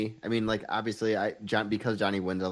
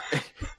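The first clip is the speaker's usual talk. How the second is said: stifled giggles; 5 dB quieter than usual. Real, not acted. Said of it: "I can't keep a straight face".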